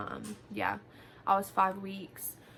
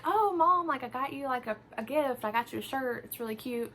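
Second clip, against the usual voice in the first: excited; 4 semitones higher than usual. Retold or imitated. Teasing mom before the gift.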